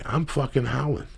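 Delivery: usual speaking voice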